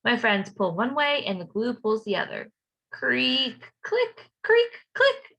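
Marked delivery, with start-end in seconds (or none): 2.9-5.4 creaky sound words. A narrator's reading. Teacher acting out the tow truck noises, playful. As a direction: creak and click acted out, the second creak jumping high.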